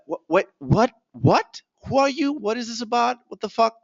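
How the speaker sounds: high-pitched, baffled mock reaction; confused prospect. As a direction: play someone thrown by a rapid-fire sales call. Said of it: "in somewhat of a confused state of mind".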